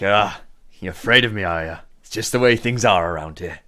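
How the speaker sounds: lightly voiced cocky gang boss; grinning gang boss. Gang boss grins at nervous visitors, lightly voiced and cocky. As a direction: play a crime boss with a hint of amusement.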